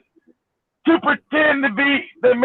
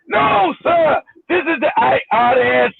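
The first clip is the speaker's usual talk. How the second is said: put-on Indian accent; 2 semitones higher than usual. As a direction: correct them firmly, imitating an Indian accent. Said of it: "with an Indian accent".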